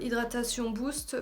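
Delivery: French speaker's clumsy English accent. Shown as a demonstration. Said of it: "j'ai un accent anglais de merde".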